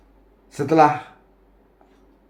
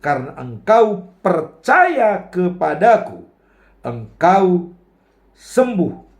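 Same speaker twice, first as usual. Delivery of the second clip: Yesus menegaskan; 3 semitones higher, 5 dB louder than usual. Retold or imitated. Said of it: "kata Yesus".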